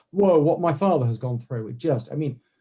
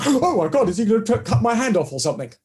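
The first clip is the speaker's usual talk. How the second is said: mock alarm; 3 semitones higher than usual. Imagined lecturer alarmed by the handshake.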